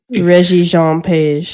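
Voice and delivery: put-on slow, careful French accent on the name. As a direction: pronounce it like a Frenchman, slowly. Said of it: "That was, that was my French accent".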